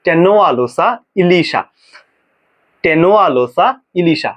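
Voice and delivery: টেনোয়ালোসা ইলিশা said slowly and carefully; teacher models টেনোয়ালোসা ইলিশা slowly for students; slow pronunciation demo. Shown as a demonstration. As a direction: say টেনোয়ালোসা ইলিশা slowly so the class can repeat. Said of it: "বারে বারে বলো আমার সাথে".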